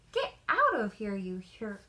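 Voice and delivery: angry shout at the intruder, loud on the first words; Granny yelling at the wolf to get out; furious cry. Acted. Granny furious at the wolf interrupting her reading, shouting. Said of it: "she cried".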